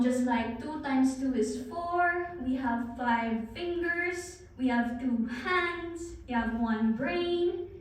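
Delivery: slow list, each item given weight; slow, deliberate presenter's list with held endings; play of intonation. Shown as a demonstration. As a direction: present trivial facts as important information. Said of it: "with the play of my voice, with the intonation".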